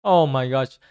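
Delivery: ordinary talk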